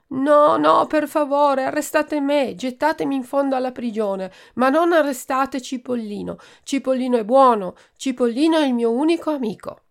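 high, loud begging, near tears; desperate pleading. Acted. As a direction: beg them to spare your only friend. Sick boy begs for his friend. (Ciliegino supplica di non arrestare Cipollino, implorando forte)

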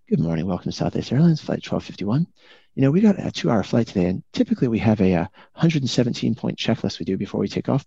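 suave captain. Acted. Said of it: "Captain goes in the suavest voice".

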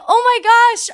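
high, gushing oh my gosh; starstruck gush. Retold or imitated. Starstruck fan reacting to Alan Rickman, high gush. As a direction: squeal it like a fan. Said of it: "I was like".

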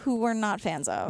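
hushed aside; whispering. Real, not acted. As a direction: drop to a whisper. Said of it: "why are you whispering that?".

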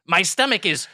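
very slow ghoulish voice, last word drawn out; Crypt Keeper. Acted. Ghoul roommate complains of hunger, slow Crypt Keeper voice. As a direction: stretch it like a ghoul relishing a pun. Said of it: "Crypt Keeper".

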